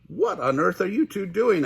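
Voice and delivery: mild puzzled waitress. Acted. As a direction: ask the scared boys what's up. Waitress asks the boys.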